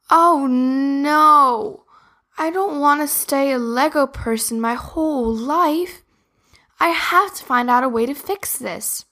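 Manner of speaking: put-on high, anxious little girl; worried. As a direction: fret about being stuck forever. Sophie worried about staying Lego.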